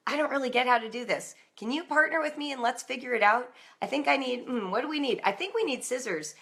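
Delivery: put-on rally the children to help; collaborative mom. Mom asking kids to partner on math, upbeat collaborative.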